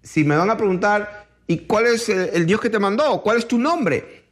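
a touch of earnest puzzlement; sincere questioning. Retold or imitated. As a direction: ask as Moses would, in all sincerity. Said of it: "con mucha sinceridad le dice a Dios".

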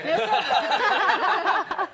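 put-on drawn-out posh London accent. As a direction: stretch it out in a high, loud London accent. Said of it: "we gotta do the whole interview in that".

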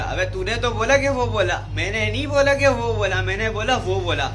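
lightly acted comic film argument, rising insistence; a touch of the comic film quarrel; quoting a film scene. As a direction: play the muddled quarrel for laughs. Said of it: "वो वाला scene".

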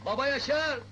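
calling out. Acted. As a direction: call his name loudly. Calling someone from outside.

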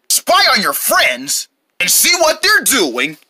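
put-on punchy kids' TV announcer; pretend ad read. Announcer pitches binoculars for spy mission, showy ad read. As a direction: sell it like a toy commercial.

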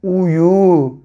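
"Uyu" drawn out, with a long final u; blending syllables. Shown as a demonstration. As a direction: join "u" and "yu" slowly into "Uyu". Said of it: "Birleştirelim". ("Uyu" sözcüğünü uzatarak heceleme)

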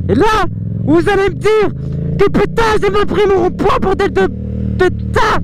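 high, worked-up complaint; exasperated rant. Real, not acted. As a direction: vent at the roundabout. Râle contre le rond-point. (râlerie exaspérée)

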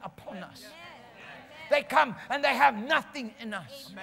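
driving, emphatic pulpit cadence; full-force preaching. Real, not acted. Preacher telling people how the Holy Ghost works, forceful preaching. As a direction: roll on urgently toward a firm climax.

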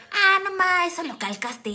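teasing big brother. Retold or imitated. Older brother teasing her that she traced it, lightly mocking. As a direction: toss off the accusation with a smirk. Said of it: "con mi hermano y así de".

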